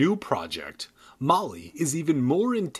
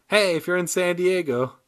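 mock invitation; 3 dB louder than usual. Real, not acted.

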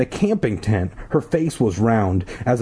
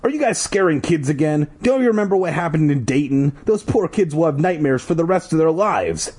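scolding cry; 7 semitones higher than usual. Acted. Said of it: "he cried".

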